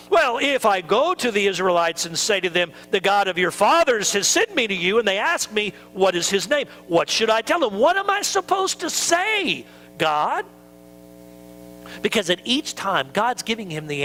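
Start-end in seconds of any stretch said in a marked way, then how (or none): 0.1-10.4 rising, worried question to God; pleading Moses. Retold or imitated. Moses asking God what to say, anxious. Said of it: "Moses asks God".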